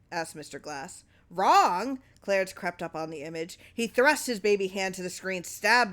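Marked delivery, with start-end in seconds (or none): 1.3-2.0 higher, louder indignant retort; outraged echo. Acted. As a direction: throw the word back in disbelief. Clarence outraged at question.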